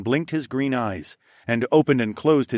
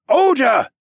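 sharp loud call, pitched up; rumbled; 10 dB louder than usual. Acted. Captain silencing his miner, loud sharp command. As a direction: bark the order to sit. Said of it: "Captain Tharfin rumbled".

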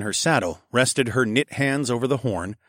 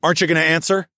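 higher, taunting question; sneering; 7 semitones higher, 4 dB louder, much faster than usual. A narrator's reading. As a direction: sneer with a rising end. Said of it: "I sneered".

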